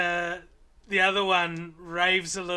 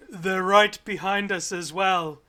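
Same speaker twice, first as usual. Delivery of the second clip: deep voice; 7 dB louder than usual. Acted. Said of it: "beautiful deep voice say".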